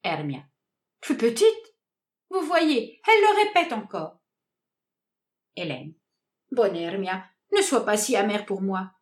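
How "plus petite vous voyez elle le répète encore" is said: high, outraged exclamation; rising in offended fury. Acted. Hermia outrée. (outrée, voix qui monte)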